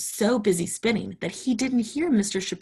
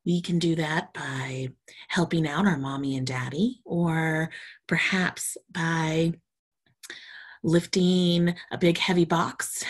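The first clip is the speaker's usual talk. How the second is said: gentle storytime intro. Acted. Teacher warmly introducing the story to preschoolers. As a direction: ease the children into the story.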